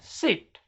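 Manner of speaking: सिट with a long, held "ee", as in seat; long vowel. Shown as a demonstration. Teacher models the long sound for students, सिट with long "ee". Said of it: "थोड़ा देर तक बोलते हैं".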